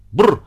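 sharp, loud feline brrr; cat's brr cry. Acted. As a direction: spit out a startled cat brrr. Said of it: "закричал Пётр Тимофеевич". (кошачье «бррр» с испугу)

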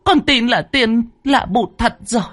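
high, wailing plea; tearful pleading. Acted. Old woman kneeling before Bụt, begging high and tearful. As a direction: beg through tears on her knees. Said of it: "Bà già khóc lóc thảm thiết".

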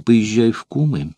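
halting, broken orders, slowing; faltering voice. Acted. Courtesan sending Metrobius to spy, voice faltering. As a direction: push the commands out haltingly. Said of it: "прерывающимся голосом".

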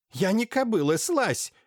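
высоко и громко, отбиваясь; рявкни, вырываясь; злой визгливый крик. Acted. Блаженная вырывается из рук. (блаженная гонит доктора, высоко и зло)

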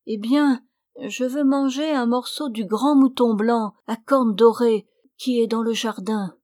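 voix haute et plus forte de fausse malade qui exige; réclamer le mouton avec aplomb; exigence capricieuse. Acted. Caprice exigé. (la fausse épouse exige le mouton, haut et fort)

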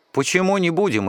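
put-on boy asking in mild surprise; surprised. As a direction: ask it mildly taken aback. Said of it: "удивился я".

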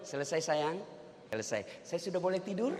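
low, soft, placating murmur; meek husband. Acted. Husband asking nagging wife to let him sleep, meekly quiet. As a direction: play the long-suffering husband, hushed and deep.

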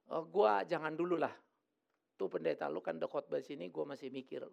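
put-on a light old mother voice, trailing off quietly; hesitant old mother. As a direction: hold back as a doubtful old mum.

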